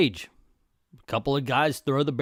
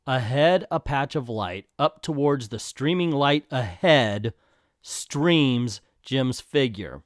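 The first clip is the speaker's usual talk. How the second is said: deadpan critical reread; slower than usual. Shown as a demonstration. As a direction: pick through the words in disbelief, with pauses. Rereads caption to mock writing.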